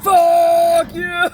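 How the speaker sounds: high, loud hostile "Fuck you!"; hostile shout. Retold or imitated. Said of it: "I was more, like, hostile".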